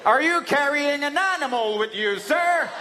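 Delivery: a hint of a suspicious officer; lightly voiced officer. Customs officer misunderstands cat.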